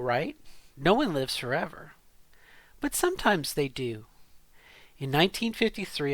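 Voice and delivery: story read with rising and falling inflection; reading aloud. Shown as a demonstration. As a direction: read out a confession, pausing between short sentences. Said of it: "So I'm gonna read this to you".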